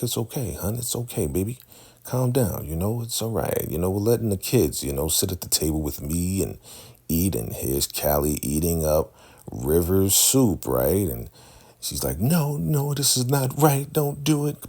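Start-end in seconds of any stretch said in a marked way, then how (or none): 0.0-7.3 mock soothing. 12.2-14.7 high, mock frightened pleading; imitating scared protest. Ruth frets as Callie eats possibly poisoned soup, mock fearful. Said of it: "Because she's scared".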